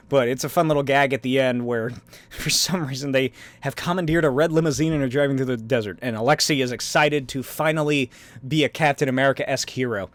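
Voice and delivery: ordinary talk, nothing marked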